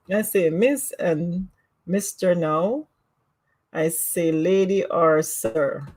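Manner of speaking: slow practice. Shown as a demonstration. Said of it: "I'm gonna have to practice".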